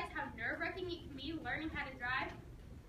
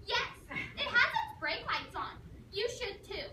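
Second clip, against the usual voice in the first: higher, louder, slow nagging mom; 6 semitones higher, 3 dB louder than usual. Retold or imitated. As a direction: lecture it slowly like mom. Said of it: "that voice was boring into my brain".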